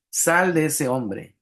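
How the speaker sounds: each word drawn out slow, commanding; slow stern command. Retold or imitated. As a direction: order the spirit out, unhurried and firm. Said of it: "le respondió Jesús". (orden lenta y firme de Jesús)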